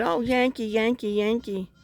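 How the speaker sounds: imitating a sing-song playground taunt; mock teasing. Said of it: "they teased me and said".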